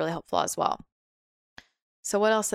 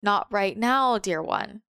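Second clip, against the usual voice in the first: loving, gentle; slower than usual. Retold or imitated. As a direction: turn them down lovingly, like a kind guide. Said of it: "Lovingly, gently".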